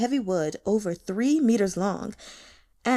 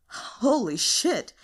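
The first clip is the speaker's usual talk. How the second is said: startled exclamation; slower than usual. Acted. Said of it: "Chu Shuju and Zhao Yunlan exclaimed".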